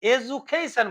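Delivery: slow এডুকেশন as "e-ju-kay-shun"; teacher's careful "e-ju-kay-shun" for এডুকেশন; modern English pronunciation. Shown as a demonstration. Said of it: "modern ইংলিশে এটাকে".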